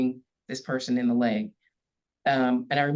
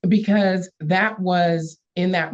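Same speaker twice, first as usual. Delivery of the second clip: higher and louder, slowed, still half laughing; laughing through emotion; 5 semitones higher, 6 dB louder, slower than usual. Real, not acted. Guest moved by her story, laughing and slowing down. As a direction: push on slowly while laughter and tears catch. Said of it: "now I'm getting emotional".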